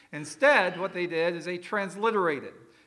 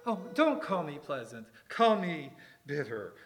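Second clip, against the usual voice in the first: a curt, dismissive brush-off; rude retort; 4 semitones lower, 3 dB quieter than usual. Shown as a demonstration. Preacher tries the reply on the congregation, curt and rude. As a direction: try to say it nicely and still sound rude. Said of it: "I can't find a way to say that that just doesn't sound rude".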